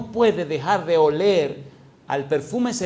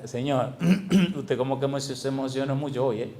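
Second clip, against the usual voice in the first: tender aside to God; 2 semitones lower than usual. Retold or imitated. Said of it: "que yo le decía".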